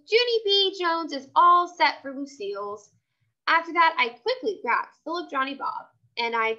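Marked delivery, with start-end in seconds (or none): 0.1-2.9 joyful. Acted. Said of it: "I hollered real joyful".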